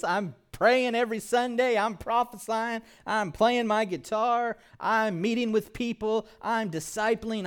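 high, loud, proud voice listing good works; boastful believer. Pretend. Self-righteous believer bragging to God, high and loud. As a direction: brag to God about how hard you work. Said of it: "we think we're in the Father's house".

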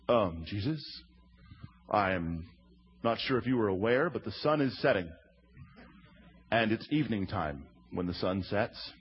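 low, hesitant mock-timid mumble; a hint of awkward know-it-all disciples. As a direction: voice the disciples like nervous schoolboys correcting the teacher. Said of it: "enter the disciples".

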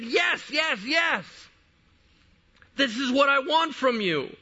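high, exultant repeated cries; Jesus exploding with joy. Retold or imitated. Jesus delighted by her persistent faith, exploding with joy. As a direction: celebrate emphatically, high and driving. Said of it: "he explodes in this joy".

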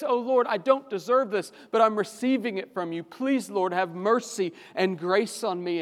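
pleading prayer. Acted. Voiced prayer for grace.

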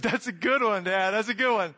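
mocking dismissal.

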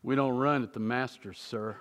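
a hint of a stern guard correcting him. Pinkerton guard scolding the running pastor, low and stern. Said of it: "he goes".

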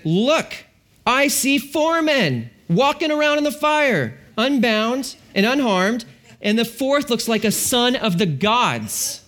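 a king who can't believe his eyes, drawn out; amazed king. Acted. King staring into the furnace, slow and amazed. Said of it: "leaped to his feet in amazement".

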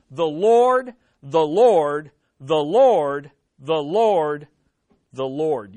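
"the Lord" hammered over and over, LORD punched loud each time; emphatic repetition. Shown as a demonstration. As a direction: drive home each "Lord" with a heavy beat, easing on the last. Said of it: "It's emphatic".

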